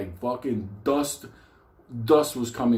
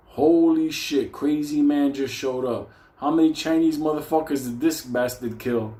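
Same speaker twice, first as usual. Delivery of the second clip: mock shock; 3 semitones higher than usual. Shocked retelling of meeting Ramon.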